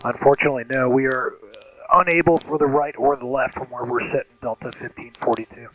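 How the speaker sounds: tinny cockpit radio call; air traffic control radio. Real, not acted. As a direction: pilot talking over the radio. Recorded pilot radio call.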